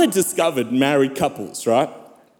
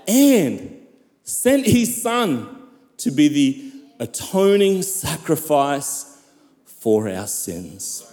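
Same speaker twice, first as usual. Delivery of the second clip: impassioned preaching. Real, not acted. Preacher tells the church of God's love, impassioned preaching. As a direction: proclaim it, then let the line fall away.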